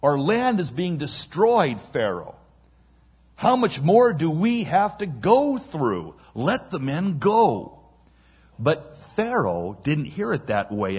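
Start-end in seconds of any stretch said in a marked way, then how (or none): 0.0-7.8 higher-pitched exasperated appeal; insistent advisor's plea; urgent plea. Acted. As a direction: beg the ruler with urgency. Advisors beg Pharaoh.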